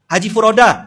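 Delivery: big, high hailing call; loud, showy call. Acted. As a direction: announce the grand title loudly to get him to turn. Calling with a grander title.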